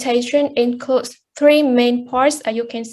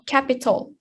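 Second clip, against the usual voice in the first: capital stressed on CAP; CAP-ital, first syllable strongest; 6 dB quieter than usual. Shown as a demonstration. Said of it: "the first syllable".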